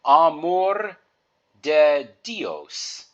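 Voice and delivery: Amor de Dios, each syllable clear; Spanish teacher modelling Amor de Dios; careful Spanish. Shown as a demonstration. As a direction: spell out Amor de Dios for students. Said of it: "let's review".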